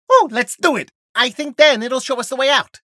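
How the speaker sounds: high, loud eager burst; excited. Acted. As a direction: jump at the chance, thrilled. Finding the way out.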